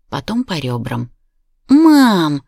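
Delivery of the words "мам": high, loud giggling squeal. A narrator's reading. Daughter squealing at her mother while tickled. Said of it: "запищала Ника".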